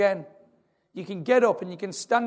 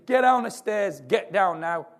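firemen's order; 3 semitones higher, 4 dB louder, slower than usual. Retold or imitated. Firemen ordering the man on the steps down, loud. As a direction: order him down the stairs now. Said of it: "The firemen say to him".

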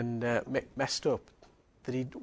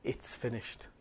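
soft whisper; 3 semitones lower, 7 dB quieter, slower than usual. Shown as a demonstration. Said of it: "quiet repeat after contrast".

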